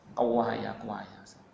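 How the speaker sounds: "kewaya" in an East Javanese twang, fading soft; old man boasting "kewaya, kewaya" in a mild village accent. Retold or imitated. Proud old father tells the ustaz, in mild East Javanese accent. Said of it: "bahasa Jawa, Jawa Timur".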